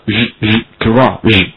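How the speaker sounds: garage ending in a buzzed, voiced "zh", sound shown alone first; 浊化音示范. Shown as a demonstration. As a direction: buzz the "zh", then say garage slowly. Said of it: "再加上浊化". (garage词尾“日”音浊化拖长)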